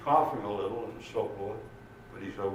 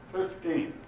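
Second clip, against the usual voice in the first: incredulous; 8 semitones higher than usual. Acted. Policeman's disbelief at the slow car.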